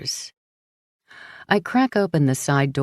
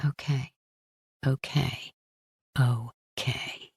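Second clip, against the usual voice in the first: softer, fading okays; numb repeated okay; 7 dB quieter, slower than usual. Acted. Frankie repeating okay as Paul lets her go, fading. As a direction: let each okay drain away.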